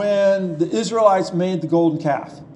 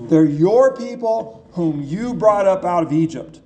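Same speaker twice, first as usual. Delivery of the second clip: weight on "your" and on "you"; stress on YOUR, YOU; 3 semitones lower than usual. Retold or imitated. Moses puts responsibility on God, stressing "your" and "you". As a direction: hand the blame back through "your" and "you". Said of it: "putting the responsibility on God".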